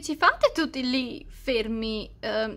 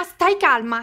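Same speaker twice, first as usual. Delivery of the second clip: panicky; 4 dB louder than usual. Acted. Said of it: "ma è nel panico!".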